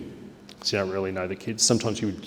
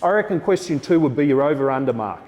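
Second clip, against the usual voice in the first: louder and higher, addressing the whole room; teacher voice to class; 5 semitones higher, 4 dB louder than usual. Shown as a demonstration. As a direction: project it across the classroom. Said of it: "So I'll talk like this".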